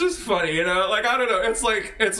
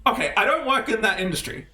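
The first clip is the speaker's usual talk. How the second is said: laughing retort. Retold or imitated. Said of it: "you'd be like".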